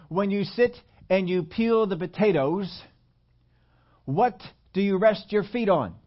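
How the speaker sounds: imitated lecturer, pointed and unhurried; German professor. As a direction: quote a professor spacing out each word deliberately. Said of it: "professor had a German accent".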